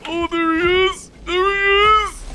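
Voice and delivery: spot him and yelp it out; sudden high alarm at the sight; excited spotting. Real, not acted. Spotting monster in horror game.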